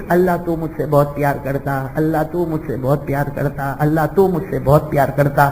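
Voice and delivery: soft, low, tearful plea to God, a touch of weeping; tearful prayer. Retold or imitated. Slave girl praying at night, softly tearful. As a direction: pray quietly as if through tears. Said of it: "وہ مصلی پہ رو رہی ہے".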